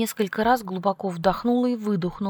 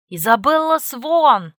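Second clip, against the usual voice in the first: loud, slow, higher full-name call; full name scolding; 6 semitones higher, 8 dB louder, slower than usual. A narrator's reading. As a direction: bellow her full name sternly. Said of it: "громкогласный зов отца".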